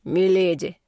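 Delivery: deep bass. Acted. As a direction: boom it out like a stern captain. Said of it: "пробасил капитан". (слегка басовитый капитан)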